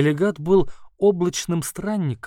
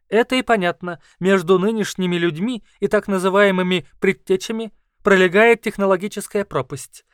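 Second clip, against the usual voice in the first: higher, louder squeaky lecturing beast; squeaky creature voice; 4 semitones higher, 6 dB louder than usual. Acted. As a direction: explain like a squeaky scholar. Kauru lectures.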